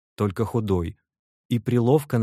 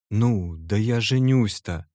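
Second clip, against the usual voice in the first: annoyed; 2 semitones higher, 4 dB louder, slower than usual. Acted. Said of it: "отвечал с досадою Вася".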